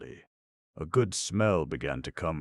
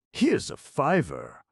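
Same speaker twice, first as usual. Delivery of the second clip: Buck's voice; 10 semitones higher, 6 dB louder, slower than usual. A narrator's reading. Buck handing over money.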